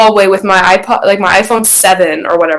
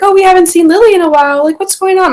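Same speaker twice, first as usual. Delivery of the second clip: imitating youth leader; 10 semitones higher, faster than usual. Youth leader quoted to mom.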